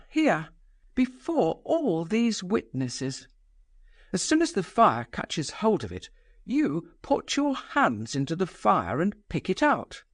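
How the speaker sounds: a proud woman daring the room, pitched high; mock the guests with scornful command; Nastasia's defiant voice. Nastasia taunting the guests over burning money, high and scornful.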